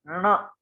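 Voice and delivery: ण with tongue curled back, through the nose; nasal letter demo. Shown as a demonstration. Teacher showing students retroflex nasal ण. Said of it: "मूर्धा और नासिका के उच्चारण से होगा".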